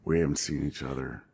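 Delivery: put-on Missouri accent. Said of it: "In his Missouri accent".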